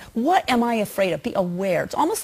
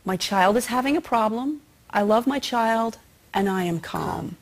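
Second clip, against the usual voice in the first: mantra. Shown as a demonstration.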